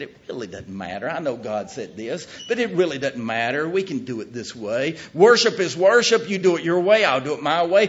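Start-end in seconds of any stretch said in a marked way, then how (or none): 5.1-7.9 loud, high mock of the false teachers' creed; mocking false teachers. Preacher mocking those who say any worship works, loud and high. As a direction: parrot their easy creed with scorn.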